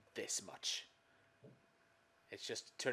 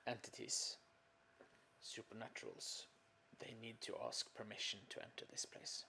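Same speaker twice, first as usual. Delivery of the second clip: whispering; 8 dB quieter than usual. Acted. Character explains in hushed voice.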